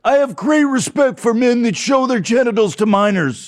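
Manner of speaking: high put-on voice of a gushing redneck fan; mock redneck fan. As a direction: gush like a dim-witted hick supporter. Mocking a Boebert fan.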